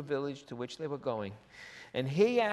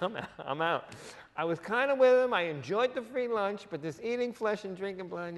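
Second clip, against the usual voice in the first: mock bailing follower; 4 semitones higher, 5 dB louder than usual. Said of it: "It's like".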